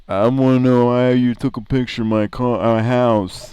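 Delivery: a hint of an upset dimwit; lightly voiced dim guy, rising questions. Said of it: "Just be like".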